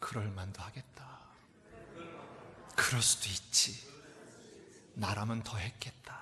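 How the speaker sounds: gentle, understanding, soft whisper.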